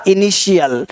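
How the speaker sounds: इनिशियल with sh for the t. Shown as a demonstration. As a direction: say इनिशियल as i-ni-shi-yal. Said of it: "इस टी को श पर".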